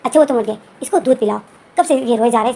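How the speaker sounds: fed up and snapping back; angry retort. Acted. Jin snaps at Wing about the crying baby, irritated and loud. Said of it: "जिन जो फिर गुस्से में बताए".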